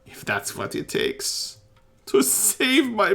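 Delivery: loud, high pleading; frantic plea. Acted. Priest begging the party to pray for his boy, loud and high. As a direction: beg loudly, near breaking.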